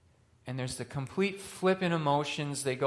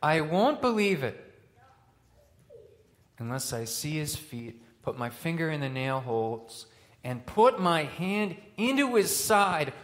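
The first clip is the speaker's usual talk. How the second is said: emphatic; 2 semitones higher, 4 dB louder than usual. Retold or imitated. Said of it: "He's so emphatic".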